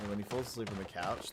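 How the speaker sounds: ordinary talk, nothing marked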